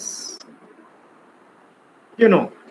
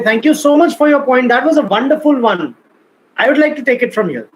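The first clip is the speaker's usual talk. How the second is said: bright, higher, brisk thanks that takes the floor; polite but assertive; 4 semitones higher than usual. Shown as a demonstration. Coach showing how to politely take the floor, assertive. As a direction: thank them warmly, then take over. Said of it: "You have to be assertive".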